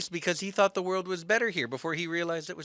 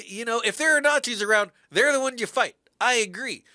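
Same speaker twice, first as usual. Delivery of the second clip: higher, louder, fired up; fired-up conviction; 6 semitones higher, 5 dB louder than usual. Real, not acted. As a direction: argue it with rising heat. Passionate stance on fighting Nazis.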